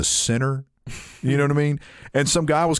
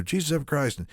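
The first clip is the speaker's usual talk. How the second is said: under my breath; 2 semitones higher, 5 dB quieter than usual. Retold or imitated. Fed-up customer cursing to himself under his breath. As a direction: mutter it softly to yourself, annoyed. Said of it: "under my breath".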